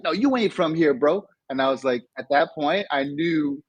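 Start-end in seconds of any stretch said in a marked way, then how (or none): 0.0-1.2 high-pitched dismissive schoolkid; imitated kid calling a bluff; doubting East Side kids. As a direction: shoot the claim down like a local kid. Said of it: "They're like".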